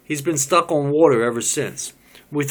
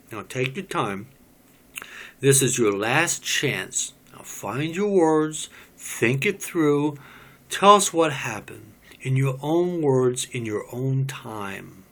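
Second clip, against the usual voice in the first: gentle coaxing. Acted. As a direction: draw him out patiently.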